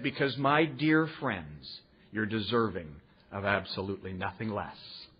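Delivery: slow, sinking low and soft; tender sincerity. Retold or imitated. Older member telling his dear friends they deserve it, tender. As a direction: let it settle gently on the listeners.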